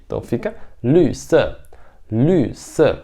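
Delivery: "lü" falling sharply in fourth tone; Mandarin fourth tone. Shown as a demonstration. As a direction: model "lü se" falling. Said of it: "Quarto tom". ("lü" no quarto tom)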